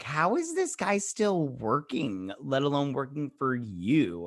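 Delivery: high, drawn-out mock disbelief; incredulous. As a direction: stretch it out in baffled amazement. Acted own disbelieving reaction to show.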